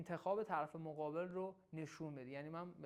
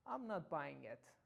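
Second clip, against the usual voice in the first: sceptical and cool; 4 semitones lower, much slower than usual. Shown as a demonstration. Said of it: "خیلی شکاکانه و خونسرد".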